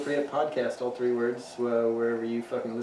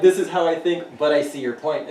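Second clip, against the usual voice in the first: open-minded quote; 2 semitones higher, 7 dB louder than usual. Retold or imitated. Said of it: "it's not like".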